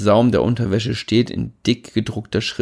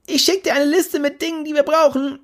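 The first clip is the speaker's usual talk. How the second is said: hearty bellow from the shower, higher and loud; loud booming call. A narrator's reading. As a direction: boom it out across the flat. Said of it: "sein lautes Ochsenknechtorgan".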